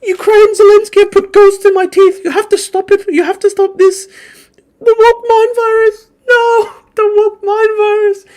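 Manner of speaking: very high, loud mock crying; hammed-up falsetto pleading through sobs; Ian Miles Chong. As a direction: wail it like a hysterical crybaby. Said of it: "had Ian Miles Chong effectively going".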